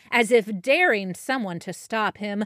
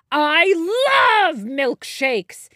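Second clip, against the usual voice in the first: loud, slowed giant shout; happy shout; 8 semitones higher, 8 dB louder, slower than usual. A narrator's reading. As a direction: shout it out with glee. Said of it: "he shouted".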